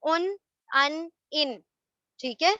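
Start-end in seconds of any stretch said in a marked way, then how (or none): 0.0-0.3 ان alone, with a short u; short u opening ان; "un" sound. Shown as a demonstration. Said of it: "ان کی sound سنائی". 0.7-1.6 first ان with short a, second with short i; isolated endings ان، ان as "an", "in"; "an", then "in". Shown as a demonstration. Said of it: "ان کی sound سنائی".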